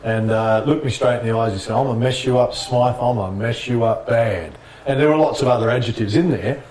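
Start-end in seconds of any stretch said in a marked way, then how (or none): 1.8-4.6 understated intimidation, slowing toward the end; retold threat. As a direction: imitate a trash talker, taking your time. Retold trash talker's threat face to face.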